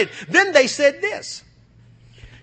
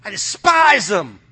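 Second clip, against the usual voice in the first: God's voice; 5 semitones lower, slower than usual. Retold or imitated. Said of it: "He's like".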